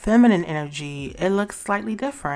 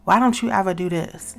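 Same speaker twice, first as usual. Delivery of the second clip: louder, nagging accusation; mock accusatory nag; accusing complaint; 3 semitones higher, 4 dB louder than usual. Shown as a demonstration. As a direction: throw the blame at him. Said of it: "rather than".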